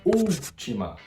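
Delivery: very slow, counting out each poetic syllable; slow count of the verse's twelve syllables. Shown as a demonstration. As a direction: tick off all twelve syllables slowly. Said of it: "a contagem fica assim".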